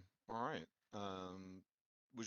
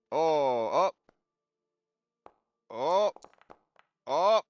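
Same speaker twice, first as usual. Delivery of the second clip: excited; 6 semitones higher, 10 dB louder, slower than usual. Real, not acted. Reacting to dice roll.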